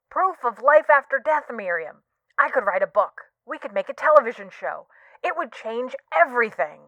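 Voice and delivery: eager, lively voice through a phone speaker; Thomas Sinclair. Acted. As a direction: pitch the big idea over a tinny phone, rising in excitement. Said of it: "the voice from the phone replies".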